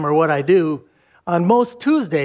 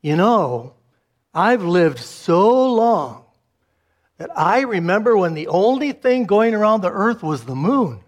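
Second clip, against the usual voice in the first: solemn voice; 2 semitones higher than usual. Retold or imitated. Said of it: "with a very solemn voice".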